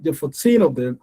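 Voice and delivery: put-on "fourteen" with stress on TEEN; stretched TEEN. Shown as a demonstration. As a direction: draw out the second syllable of "fourteen". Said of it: "you're gonna stretch that teen".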